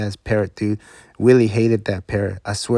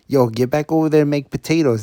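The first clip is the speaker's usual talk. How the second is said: bossy shout; 5 semitones higher, 4 dB louder than usual. Retold or imitated. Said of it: "And he's like".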